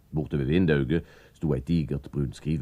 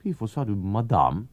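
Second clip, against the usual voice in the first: character voice; 7 semitones higher, 4 dB louder than usual. Acted. Anders questions Gaspar.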